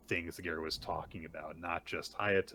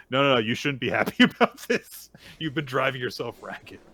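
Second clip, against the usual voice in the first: loud, higher, exasperated telling-off; acted scolding; 7 semitones higher, 11 dB louder than usual. Acupuncturist telling off overworked client, loud and higher. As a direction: scold with a touch of amusement.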